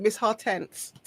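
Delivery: lightly put-on Grenadian accent, softly said; a touch of Grenadian accent. Shown as a demonstration. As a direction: try the name with a Grenadian lilt. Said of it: "need to say it in a Grenadian accent".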